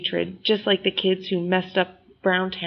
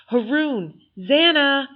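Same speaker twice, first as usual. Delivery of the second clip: higher calling voice across the yard; a lightly voiced mother calling; 8 semitones higher, slower than usual. A narrator's reading. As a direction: call the kids' names from the house. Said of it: "I hear our mother calling".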